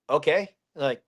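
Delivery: low, even warning; calm and low, no shouting. Retold or imitated. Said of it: "I'm more calm than I was".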